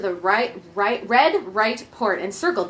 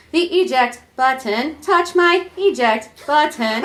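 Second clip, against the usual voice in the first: demanding; 2 semitones higher, slower than usual. Acted. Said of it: "she demanded".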